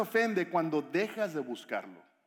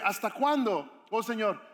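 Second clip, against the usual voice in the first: slow, raised cry of complaint; shouting in capitals; 4 semitones higher, 4 dB louder, slower than usual. Acted. Habacuc crying out to God unheard, shouting in capitals. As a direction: cry out loudly and higher, drawing it out. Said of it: "lo escribió ahí con mayúsculas".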